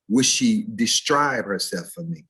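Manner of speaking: "describe" said as "distribe"; mispronounced describe. Retold or imitated. Student asking his professor about a girl, mispronounced describe. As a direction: slip an extra T-R into "describe", "di-STRIBE". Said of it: "Did you say describe or describe".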